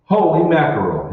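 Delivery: astonished exclamation. Acted. Burkhart reacting to Henry's copper discovery, astonished. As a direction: let it burst out in disbelief.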